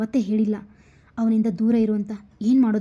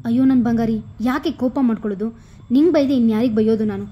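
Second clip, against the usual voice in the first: coaxing sweetly; 5 dB louder, faster than usual. Acted. Husband placates sulking wife.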